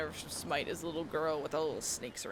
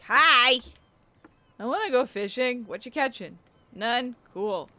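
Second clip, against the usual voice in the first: chirpy voice; 6 semitones higher, 10 dB louder, slower than usual. Pretend. Chirpy greeting to NPC.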